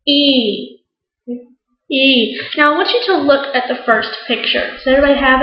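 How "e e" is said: "E" said alone as a held ee; vowel sound demo. Shown as a demonstration. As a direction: model "E" as a long, clear ee. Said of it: "how to make the sound".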